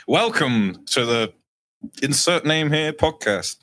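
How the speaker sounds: big, drawn-out show opening, loud and high; podcast host intro. Acted. Guest mocking how the host should open the podcast, hammed-up announcer intro. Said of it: "expecting you to come in like".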